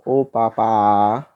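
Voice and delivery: "O, pa, pa, a" with the last vowels run into one long a; vogais juntadas. Shown as a demonstration. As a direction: join the final "pa, a" into one held syllable. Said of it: "nós lemos assim na metrificação". ("O, pa, pa, a" com as vogais finais emendadas)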